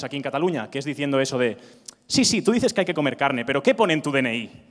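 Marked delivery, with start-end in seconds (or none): 2.1-4.6 mock retort, raised in pitch at first; arguing vegan. Vegan closing an argument about meat, lightly mocked retort. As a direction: lightly act out a dismissive debater. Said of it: "veganos cerrando discusiones".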